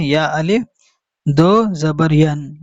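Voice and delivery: "अलिफ" spoken aloud between "या" and "दो"; mistaken reading with alif. Shown as a demonstration. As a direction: show the error by sounding "अलिफ" as its own word. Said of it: "बाज हजरात पढ़ते हैं".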